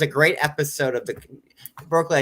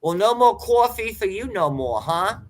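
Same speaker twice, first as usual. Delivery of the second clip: mock boss; 6 semitones higher, 4 dB louder than usual. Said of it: "yelled at ... by my boss".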